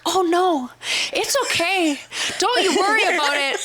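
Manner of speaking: very high, quick sugary voice with a laugh; fake-sweet. Friend mimicking her fake-sweet reassurance to the men. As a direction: gush falsely kind. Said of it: "And you're like".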